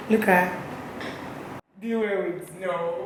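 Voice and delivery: soft unvoiced aside; whispering. Real, not acted. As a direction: whisper so she won't hear. Whispering about the stylist.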